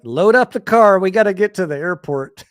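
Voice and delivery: loud, high call to hurry; urgent shout. Retold or imitated. Telling his buddy with the car keys to get moving, urgent shout. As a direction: holler it in a mock panic to get out.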